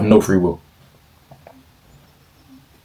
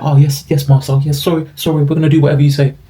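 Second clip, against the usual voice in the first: higher, fawning yes-man voice; mock servile; 5 semitones higher than usual. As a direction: grovel to the master, pitched up. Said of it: "they're just gonna conform".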